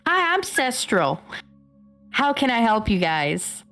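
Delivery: high, bright-toned waitress greeting, southern lilt; customer service voice. Acted. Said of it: "my customer service voice fucking goes southern".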